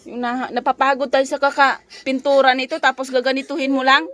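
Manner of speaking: irritated scolding. Real, not acted. Mother complaining to her daughter about wasted painting, irritated.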